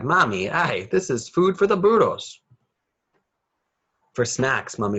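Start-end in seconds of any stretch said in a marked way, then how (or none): 0.0-2.4 high, loud whiny protest; crying out. A narrator's reading. Nacho protests breakfast to Mommy, loud and high. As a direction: wail it like a fed-up kid. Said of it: "He cried".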